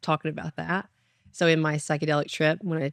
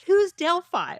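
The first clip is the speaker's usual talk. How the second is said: high, louder confused "Who's Delphi?"; bewildered, as if the name is nonsense; puzzled outburst; baffled question; 13 semitones higher, 5 dB louder, slower than usual. Retold or imitated. Confused reply to God.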